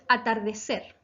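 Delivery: "atardecer" measured, leaning on the final "cer"; teacher showing the stressed end of "atardecer"; stress on last syllable. Shown as a demonstration. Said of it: "se acentúa en la sílaba ser".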